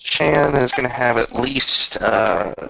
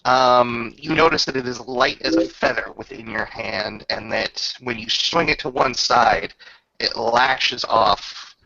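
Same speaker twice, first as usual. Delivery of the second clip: game master narration. Acted. Game master describing the weapon to the player, measured narration. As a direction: paint the weapon's power for the player.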